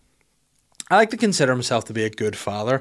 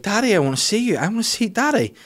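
put-on much higher child's pleading voice; three-year-old's voice; 12 semitones higher than usual. Daughter begging daddy for Peppa Pig, high child voice. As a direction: whine like a toddler wanting Peppa. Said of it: "the three-year-old's like".

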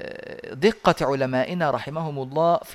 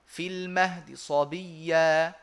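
slow recitation; much slower than usual. Shown as a demonstration. Teacher reciting the example for students. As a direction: chant في المهد صبيا, rushing the ha. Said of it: "هكذا".

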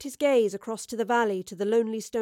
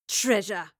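bitter spat "Treasure!" with falling tune; "Treasure!" spat out in scorn; spat with resentment. Acted. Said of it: "spat with true resentment".

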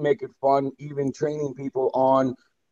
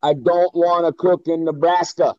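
signature line; 5 semitones higher, 4 dB louder than usual. Retold or imitated. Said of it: "the line was".

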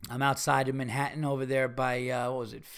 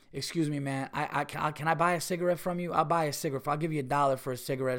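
polite request; faster than usual. Shown as a demonstration. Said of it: "what people with some sort of fucking dignity ... go up and they say".

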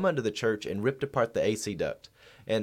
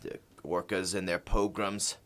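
over the phone; 3 semitones lower, 5 dB quieter than usual. Acted. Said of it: "We're gonna do a phone interview with them".

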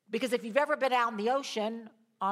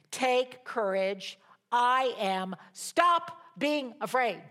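reassuring; much slower than usual. Acted. Jesus reassuring frightened disciples.

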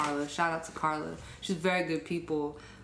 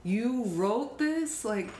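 raised pitch, slow, gushing; hyped mom; 6 semitones higher than usual. Retold or imitated. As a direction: gush over it like a thrilled mom. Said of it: "She was just hyped".

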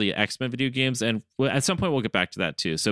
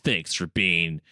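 Logan impression; 3 semitones lower than usual. Co-host as Logan thanks top-tier supporters, low gruff-hero impression. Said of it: "have Logan come back and be like".

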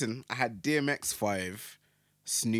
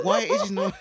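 higher mock girl voice, laughing; giggly put-on caller, pitched up; prank-call girl voice; 7 semitones higher, 6 dB louder than usual. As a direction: imitate a girl prank caller while amused. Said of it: "Like, girls, isn't it?".

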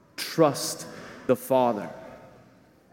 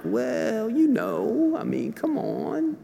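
rationalizing tempter voice. Pretend. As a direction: talk yourself into it, wheedling. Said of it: "reason is rationalizing".

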